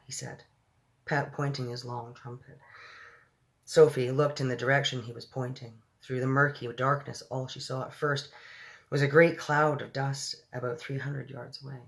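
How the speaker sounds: measured read-aloud storytelling; story narration. A narrator's reading. Reader telling of Sophie in the giant's ear, story narration. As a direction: read it evenly, with pauses between phrases.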